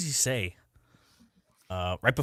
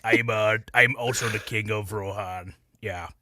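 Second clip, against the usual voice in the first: Jesse Ventura impression; 4 dB louder than usual. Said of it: "he talks like this".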